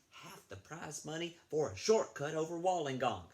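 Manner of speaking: lively, lilting read-aloud voice; storybook reading. Acted. Librarian reading to the children, lively storytelling. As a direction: tell it like a bedtime tale for kids.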